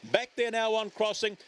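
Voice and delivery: rising pitch, calling the finish with urgency; excited race call. Real, not acted. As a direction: build to the line like a live race caller.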